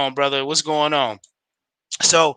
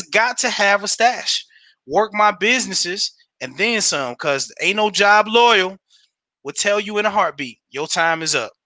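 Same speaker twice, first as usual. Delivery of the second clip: reading a comment. Acted. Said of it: "It says".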